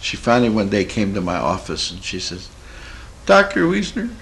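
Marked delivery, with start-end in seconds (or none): 3.3-4.1 very high, imitated squeal of revelation; overjoyed cry. Changed client telling her doctor she believes, imitated overjoyed cry. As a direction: imitate a jubilant wail, swelling louder.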